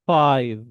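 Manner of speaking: FIVE ending in a long voiced V. Shown as a demonstration. Teacher counts for students, clear final V. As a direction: punch FIVE and buzz the final V. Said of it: "V sound".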